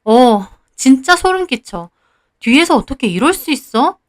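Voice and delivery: mildly angry, accusing storytelling voice; angry confrontation. Acted. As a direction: confront a friend with restrained acted anger. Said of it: "저도 화내며 따졌습니다". (화내며 따지는 말투)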